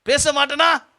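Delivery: hammed-up defiance; stubborn refusal. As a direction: imitate someone stubbornly refusing. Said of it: "வைராக்கியம்".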